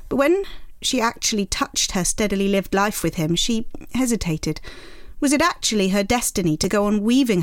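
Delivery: measured literary reading voice; reading aloud. Acted. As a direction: read the passage steadily. Reads Lady Chatterley aloud.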